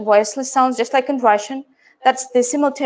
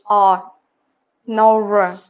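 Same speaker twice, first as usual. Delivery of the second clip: British non-rhotic; 3 semitones lower, much slower than usual. Shown as a demonstration. Teacher demonstrating pure British accent sounds. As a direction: say "no R" the British way, low. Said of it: "Pure British accent".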